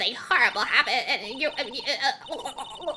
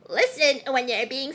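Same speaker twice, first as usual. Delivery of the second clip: put-on old hag; 4 dB louder, slower than usual. Guard character scolds loudly.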